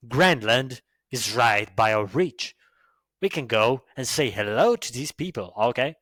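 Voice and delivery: lightly put-on Canadian accent. Shown as a demonstration. A Canadian boasting about government and land, mock Canadian accent. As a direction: imitate a proud Canadian, key words punched. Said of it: "Canadian people speak like".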